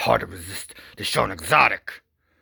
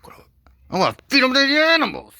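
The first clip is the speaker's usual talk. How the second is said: very high, loud, fast mock woman's voice; gleeful villain plotting in a falsetto; 10 dB louder, faster than usual. Wife scheming about feeding him to the animals, in a high falsetto. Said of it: "so she's like".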